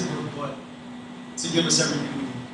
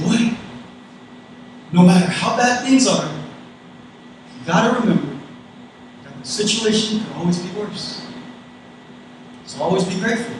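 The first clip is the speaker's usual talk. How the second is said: put-on mother's Guamanian accent, pitched up in places; mom's Guamanian accent; 3 semitones higher than usual. Mom reminding her child to stay grateful, imitated Guamanian accent. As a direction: lightly imitate an immigrant mom from Guam. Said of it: "I'm gonna try to do my mom's accent".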